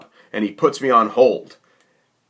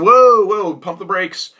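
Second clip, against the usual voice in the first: lightly voiced company rep, a higher, louder whoa; mock stop; 8 semitones higher, 5 dB louder, slower than usual. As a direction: halt him in a light mock voice. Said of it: "They said".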